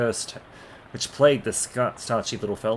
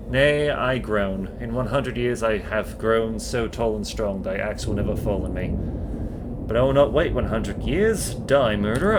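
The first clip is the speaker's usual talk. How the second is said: menacing tree. Acted. Tree threatens, attacks.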